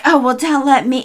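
lightly imitated Southern accent. Starting to quote the cat walking in, light Southern accent. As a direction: put on a Southern cat's voice. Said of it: "the cat has a southern accent".

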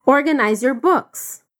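Organize your books said slowly; slow model. Shown as a demonstration. Teacher modelling the order slowly. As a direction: lay each word down clearly. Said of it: "Repete comigo".

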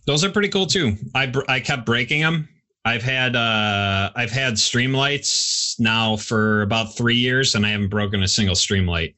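talking through a mouthful of food; words round a bite of food; chewing while talking. Real, not acted. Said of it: "Sorry, I'm chewing in everyone's ears".

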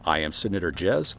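ordinary talk

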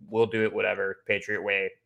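flat, grumbling impression of a gruff coach; lightly voiced grumpy old coach; monotone grumpy old man. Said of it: "doing my best to channel his, his monotone, grumpy old man voice here".

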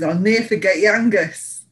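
bad Scottish accent, lightly put on; a clumsy attempt at a Scottish accent; terrible Scottish accent. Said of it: "That was a really terrible Scottish accent".

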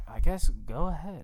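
unvoiced grudging whisper. Real, not acted. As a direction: hand over the mic in a whisper. Whispered aside.

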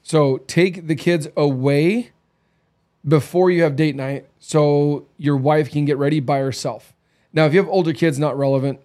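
ordinary delivery

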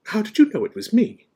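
high, loud, ruffled question. A narrator's reading. McGonagall found out by Dumbledore, ruffled. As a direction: ask it sharply, rather put out. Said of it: "She looked distinctly ruffled".

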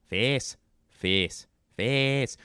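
"face" with a pure Scottish vowel, "fess"; Scottish pronunciation. Shown as a demonstration. Demonstrating "face" in Scottish, short pure vowel. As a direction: say "face" as a Scot would, no glide. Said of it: "the word face is pronounced face".

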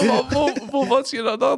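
laughing question. Retold or imitated. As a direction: ask it while still cracking up. Still laughing at coincidence. (lachend, deutlich höher)

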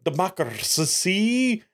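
slow, mock-British pronouncement; lightly imitated refined British accent; sophisticated British accent. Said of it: "he has that British accent".

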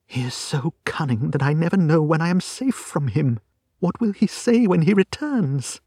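high, anxious woman's voice; frightened client. Acted. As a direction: play a worried client, rising into alarm. Narrator voices frightened Miss Stoner.

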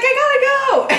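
high, loud and rushed, laughing through it; imitated flustered yell. Friend hanging up in a panic, high laughing yell. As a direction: blurt it out high as the wine spills. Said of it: "she screams at the end".

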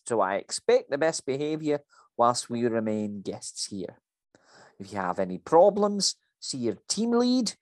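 a strict Scottish boss reading out regulations; bossy Scottish woman lecturing her staff; Scottish accent. Acted. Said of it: "that was a very good accent there".

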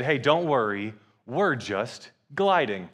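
slow right down to reassure, played for laughs; mock reassurance. Old lady to a panicking boy, slow reassurance.

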